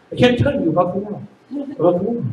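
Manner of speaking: soft, fading helplessness; mock-helpless murmur; unable to talk. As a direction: trail away as if gagged by handcuffs. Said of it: "We can't talk anymore".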